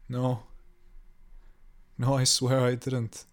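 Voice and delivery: ordinary delivery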